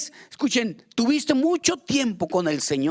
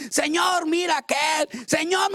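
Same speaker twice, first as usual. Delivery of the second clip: high, pleading whine at God; complaining believer calling on the Lord, higher and pleading; whiny complaint; 5 semitones higher than usual. Acted. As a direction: tattle to the Lord like a sulking child.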